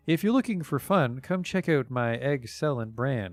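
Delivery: sing-song sales rhyme, a hint timid; thin, shy voice. Acted. Egg seller pitching her eggs to a stranger, lightly thin and shy. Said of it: "she speaks to you in a thin, shy voice".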